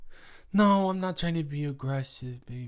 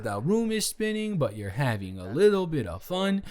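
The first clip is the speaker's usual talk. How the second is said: sweet soothing mock; 4 semitones higher than usual. Imagined kind words to drunk Colin, high and sing-song. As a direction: coo it like a nurse calming a drunk. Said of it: "And I can't just say".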